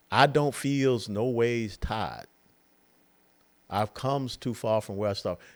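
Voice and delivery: slow, drawn-out imitation of a Southern Black accent. Mocking a candidate at a black church, in a Southern Black accent. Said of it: "she gets a Southern black accent".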